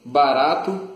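speaking around hookah mouthpiece; talking with pipe in mouth. Real, not acted. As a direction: lips holding mouthpiece. Seen 2: Capped speaker keeps pink hose tip between lips while talking.

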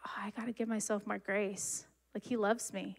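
breathy whisper, almost to herself; hushed private revelation; whispered realization. Retold or imitated. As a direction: let the realization slip out as a soft whisper. Retold inner realization, whispered.

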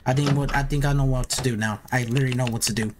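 stumbling over words from nerves; stammer, restart the sentence nervously; nervous stutter. Real, not acted. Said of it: "if I keep stuttering, man, it's because I'm nervous".

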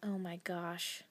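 slow breathless whisper; hushed, slow whisper of wonder; awed whisper. Real, not acted. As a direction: whisper it in awe. Awed by tiny charm.

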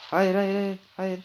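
real alarm as he's attacked; panicked no. Real, not acted. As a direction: cry no in a panic. About to be attacked.

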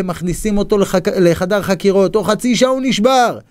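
usual speaking voice

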